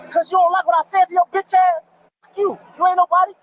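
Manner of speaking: furious at the officer; angry. Real, not acted. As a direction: snap back at the cop with contempt. Arguing with police at traffic stop.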